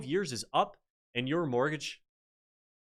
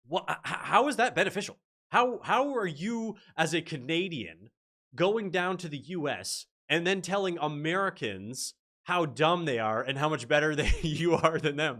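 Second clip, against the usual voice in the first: high-pitched, stammering disbelief; incredulous objection; 4 semitones higher, 3 dB louder than usual. Retold or imitated. Woman challenging a boastful Canadian in the jury room, incredulous. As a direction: challenge them in appalled disbelief, voice raised high. Her appalled reply to the boasting.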